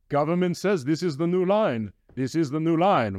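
mock Russian official voice; bad Russian accent. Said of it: "in a bad Russian accent".

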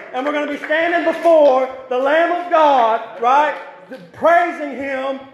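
insistent, driving pulpit litany; fervent preaching. Real, not acted. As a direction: hammer out each promise to the congregation. Preaches list of ended sufferings.

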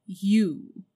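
one loud, menacing word; terrible voice. Acted. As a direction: freeze him with a single word. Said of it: "in a still more terrible voice".

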